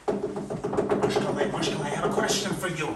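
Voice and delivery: breathy whispered calling of Mashkale. Acted. King knocking at Mashka's door, whispered call. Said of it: "He decided to knock".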